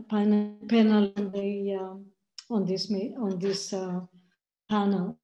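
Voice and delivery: choppy audio cutting out; broken-up call audio; corrupted glitchy audio. Real, not acted. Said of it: "your audio is cutting out a bit".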